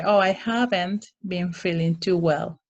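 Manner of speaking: light, gentle "Oh, I haven't been feeling too well"; gently understated complaint; polite and positive. Shown as a demonstration. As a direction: soften it and keep it polite. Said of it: "You want to be kind of polite and, and positive".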